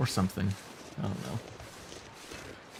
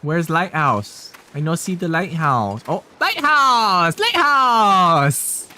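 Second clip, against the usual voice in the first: slow, loud and far higher on Lighthouse!; hammed-up caveman joy; mock excited find; 5 semitones higher, 7 dB louder, much slower than usual. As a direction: cry out over the lighthouse. Mock searching, then joyful find.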